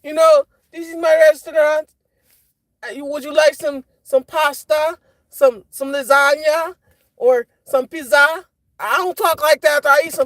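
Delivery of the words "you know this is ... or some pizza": lightly voiced Italian Mario accent, slow at the end; a hint of a Mario-style Italian waiter, offering pasta; understated Italian accent impression, slowing on the food list; mock Italian Mario. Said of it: "start talking like".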